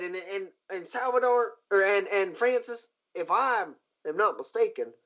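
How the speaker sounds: a hint of a marshal laying out the crime; stern marshal. Marshal Kane briefing the captain on the murder, a hint of urgent lawwoman voice. GM holds Kane's voice.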